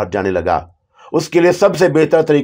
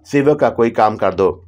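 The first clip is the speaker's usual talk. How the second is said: plain reading voice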